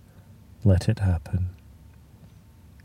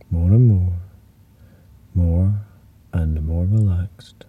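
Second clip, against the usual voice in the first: whispering; 3 semitones lower than usual. Acted. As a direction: let it drift into a whisper. Fades into whisper.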